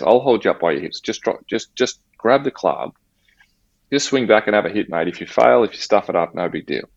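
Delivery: father coaxing his injured son to hit the ball; coaxing dad. Retold or imitated. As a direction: talk him into the swing gently.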